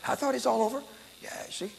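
whispered aside. Real, not acted. Hushed aside after the exorcism.

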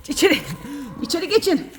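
high, loud shooing command; herding call. Real, not acted. Woman ordering her hens back inside, high loud call. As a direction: shoo them back inside.

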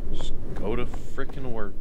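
real irritation; frustrated. Real, not acted. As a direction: grit through annoyance. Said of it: "frustrated at game".

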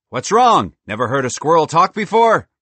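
loud, high cheerful squirrel; a bold, chatty talking squirrel. Acted. Merle speaks.

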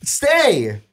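high, sing-song mocking voice. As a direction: squeak it out in a mock high voice. Mocking reply in a quote.

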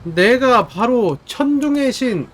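slow, booming god-of-thunder roar; enraged boss roar. Acted. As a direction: roar your name like an angry god. Thor character threatens enemy.

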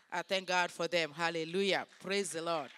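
loud, emphatic thanksgiving; loud praise. Real, not acted. Speaker thanking God for the pastors, loud praise. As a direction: proclaim thanks to the congregation, loudly.

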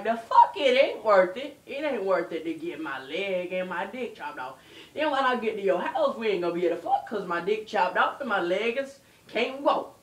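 hammed-up exasperated rant; indignant protest. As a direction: argue back loudly, piling up objections. Acted quarrel in retold call.

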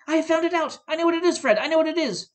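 high, loud, eager outburst; excited cry. A narrator's reading. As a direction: blurt it out in triumph. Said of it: "cried out".

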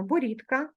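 борідка said with a voiceless t, boritka; devoiced t pronunciation. Shown as a demonstration. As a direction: say борідка as heard, t not d. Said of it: "ми вимовляємо".

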